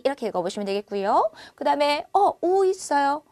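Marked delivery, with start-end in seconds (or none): 2.4-2.7 우 slow and drawn out; Chinese u. Shown as a demonstration. Teacher models 우 slowly for learners. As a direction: model 우 slowly with rounded lips. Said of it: "우라고 읽어보시면 되겠고요".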